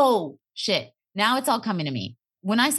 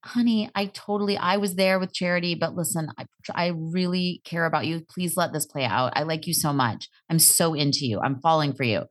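tender reassurance; 3 semitones lower than usual. Retold or imitated. Host voices the reassurance she wanted from him, tenderly. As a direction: imitate a boyfriend gently reassuring his girlfriend.

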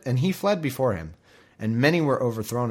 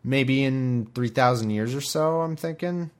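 mock reluctant voice. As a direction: squeal it out, then ramble nervously. Acted figure refusing to come out.

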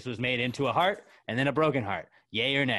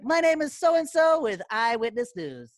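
news voice; 7 semitones higher, 6 dB louder than usual. Retold or imitated. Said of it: "kinda go into news voice".

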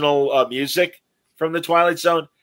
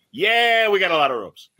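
Chico Marx; 5 semitones higher than usual. Retold or imitated. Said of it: "that Chico Marx sort of went".

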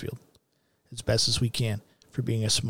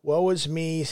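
mock self-pity; 4 semitones higher than usual. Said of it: "Pity party".

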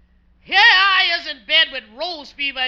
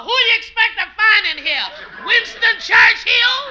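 sarcastic; 6 semitones higher than usual. Acted. Sarcastic retort from mother-in-law.

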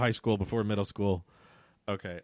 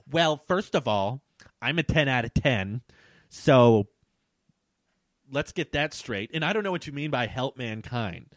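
put-on mildly sassy entitled girl; lightly sassy retort; 4 dB louder than usual. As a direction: act out a touch of entitled sass. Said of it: "'cause it says sassy tone".

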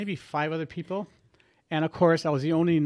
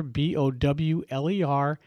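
letter by letter, slow; spelled out slowly; slower than usual. Shown as a demonstration. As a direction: spell it out for the listener. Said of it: "their website is Bowler".

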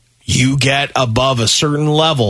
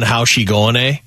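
put-on mild Canadian accent; 2 semitones lower than usual. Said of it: "the funny Canadian accent".

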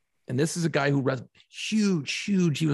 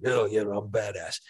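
in-character wrestler; 8 semitones lower than usual. Retold or imitated. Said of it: "they're in character".

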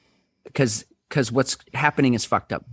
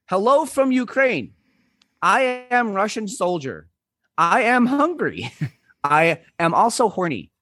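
letter from a Russian soldier; 5 semitones higher than usual. Retold or imitated. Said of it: "I promise I won't do a fake Russian accent".

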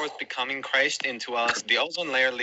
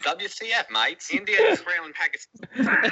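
mock Australian; 5 semitones higher than usual. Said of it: "Australia is down there like".

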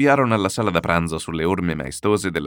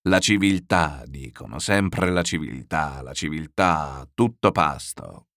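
slow, sneering repetition of "la civiltà"; a host mocking civilised fashions, slowly and scornfully; irritated scorn; 2 semitones lower, slower than usual. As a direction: drag out "la civiltà" with contempt. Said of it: "crollò irritato la testa".

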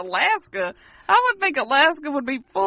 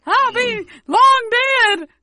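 put-on old prospector; 8 semitones higher, 8 dB louder, slower than usual. Echoing miner voice.

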